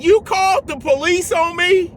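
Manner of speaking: retold disbelief. Disbelief at police being called.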